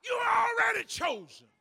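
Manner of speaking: loud, high, driving preacher's cry; fervent preaching. Real, not acted. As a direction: preach it with full fire. Preaching at full force.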